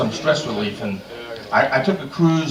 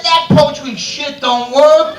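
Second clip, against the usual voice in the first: complaint; 10 semitones higher, 7 dB louder, slower than usual. Retold or imitated. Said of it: "He said".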